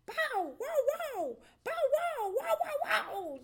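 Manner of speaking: very loud, high barking; hound barking. A narrator's reading. Hound roaring behind the fox, loud barks. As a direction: bark like a big hound. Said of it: "a great roar right behind him".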